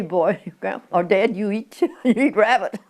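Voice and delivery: giggling through a teasing quote; laughing mock accusation; laughing tease.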